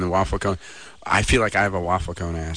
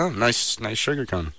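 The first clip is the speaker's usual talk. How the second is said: politely seething customer act; passive aggressive; slower than usual. Acted. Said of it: "be passive aggressive and be like".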